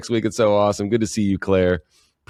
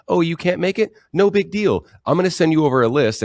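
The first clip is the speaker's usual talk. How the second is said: bright, much higher, cheery phone voice; breezy phone voice; 8 semitones higher than usual. Retold or imitated. Fundraiser on the phone reassuring a supporter, high and breezy. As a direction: wave off the cancellation with easy cheer. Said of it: "you're on the phone and you're talking to a, a supporter, like".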